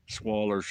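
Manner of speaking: Swallers with a dropped final vowel, er ending; Alabama swallers. Shown as a demonstration. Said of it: "that's how we say it in Alabama".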